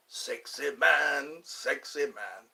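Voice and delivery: slow, fading Fat Bastard imitation. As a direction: stretch each word, let it trail off. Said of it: "Fat bastard left a floater".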